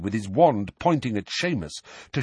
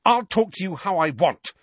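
high, heated quarrel; defiant and sharply indignant; rising temper; 9 semitones higher, 4 dB louder than usual. A narrator's reading. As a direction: trade angry retorts, voice raised. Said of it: "his temper rising so fast".

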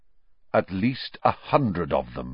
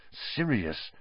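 muttered; 8 dB quieter than usual. A narrator's reading. Harry staring into the darkness, muttering. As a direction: mutter the name under the breath. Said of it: "Harry muttered".

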